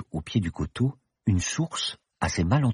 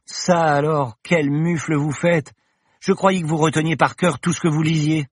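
put-on indignant young woman; 9 semitones higher, 4 dB louder than usual. Paloma scolds Bergton.

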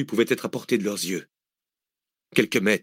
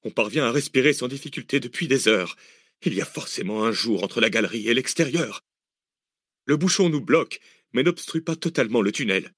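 calm analytic man, raised pitch; reasoning Arsène; 3 semitones higher than usual. Acted. Arsène explaining why air gets in, calm reasoning. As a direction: reason it through for them.

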